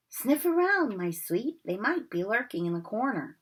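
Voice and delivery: crooning to his cat; a hint of creepy caretaker; lightly voiced Filch. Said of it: "Filch speaking to Missus Norris".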